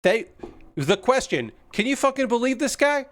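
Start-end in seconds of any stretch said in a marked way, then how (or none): 1.7-3.0 high, fed-up "can you believe this" gripe; a mock-outraged stranger looking for an ally; exasperated New Yorker. New Yorker commiserating on the subway.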